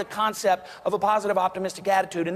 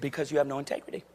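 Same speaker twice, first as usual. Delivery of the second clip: softer, not angry, just stating it; calm, matter-of-fact; 6 semitones lower, 7 dB quieter, faster than usual. Retold or imitated. Buyer tells the salesman his verdict, calm and polite. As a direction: say it politely with no heat. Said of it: "And I just said it like that".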